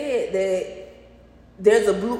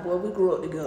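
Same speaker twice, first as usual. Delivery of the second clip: laughing; 2 semitones lower, faster than usual. Retold or imitated. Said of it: "I tell my son that".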